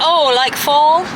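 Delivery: slow, badly faked American drawl; a clumsy stab at an American accent; mock American accent asking about fall; awful American accent. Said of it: "That was an awful accent".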